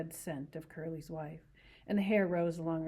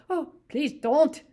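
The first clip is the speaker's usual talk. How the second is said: higher, much louder, slow desperate plea; begging; 9 semitones higher, 12 dB louder, much slower than usual. Acted. Lenny to Curly's wife, panicked slow begging. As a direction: beg her to stop. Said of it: "he begged".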